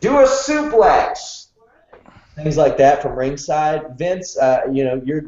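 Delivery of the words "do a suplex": high, drawn-out mock yell; imitated scream. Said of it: "he's screaming at him".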